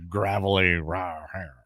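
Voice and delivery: soft gravelly growl; growled-out mock gruffness; John Dutton. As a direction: lightly imitate a gravelly voice. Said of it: "He's putting on the voice of John Dutton".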